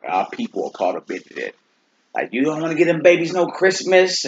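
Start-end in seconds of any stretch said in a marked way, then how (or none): 2.3-4.2 high, incredulous mock complaint; mimicked objector. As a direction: put on a higher voice for a scandalized relative. Mimicking critics of skipping Christmas.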